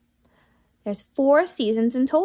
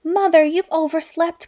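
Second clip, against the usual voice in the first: excited cry; 5 semitones higher, 4 dB louder than usual. Acted. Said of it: "cried Alfie".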